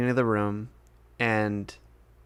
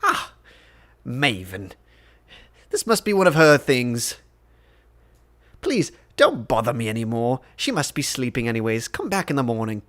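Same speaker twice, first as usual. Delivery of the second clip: Lord Scheinheimer, dismissive. Acted. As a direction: wave the guard off, lightly in character.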